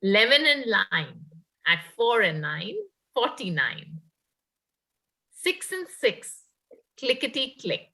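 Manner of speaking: sing-song number calling; bingo caller. Acted. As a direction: call out tambola numbers. Resumes housie calling.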